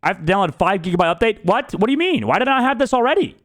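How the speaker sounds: high, fast outraged question; indignant disbelief. Real, not acted. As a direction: rant in disbelief. Update complaint.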